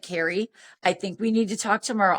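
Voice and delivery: understated, even retold voice; calm reply. Dan putting off tipsy caller till tomorrow, calm. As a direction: placate her evenly, without rising to it.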